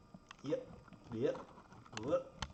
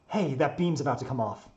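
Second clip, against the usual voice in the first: louder call across a distance; urgent warning; 3 semitones higher, 7 dB louder than usual. Acted. Character warns the builder.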